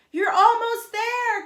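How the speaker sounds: high, loud, slow cheer; cheering shout. Acted. Kenny and Rico cheering Kat up the wall, slow and loud. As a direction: stretch it out to push her over. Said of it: "Kenny and Rico joined in".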